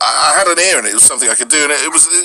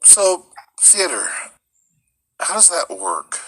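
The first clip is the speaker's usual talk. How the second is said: casting director voice; 7 semitones higher, 5 dB quieter, slower than usual. Retold or imitated. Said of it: "they'd be like".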